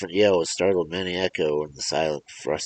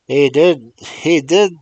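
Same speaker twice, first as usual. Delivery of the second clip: loud, high furious yell; 10 semitones higher, 11 dB louder, slower than usual. Acted. Old man insisting to the mother, yelling loudly. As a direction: shout him down. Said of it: "yelled the old man".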